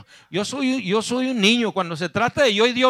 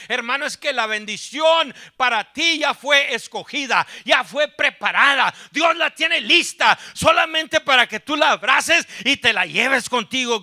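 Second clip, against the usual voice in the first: raised, driving sermon voice with bursts of shouting; impassioned preaching; 4 semitones higher than usual. Real, not acted. Preacher urges congregation to take their blessing, fervent exhortation. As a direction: press each phrase home to the congregation.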